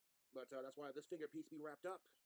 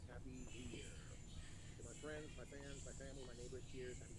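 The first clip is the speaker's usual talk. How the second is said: whispered wishes. Real, not acted. New Year wishes to fans.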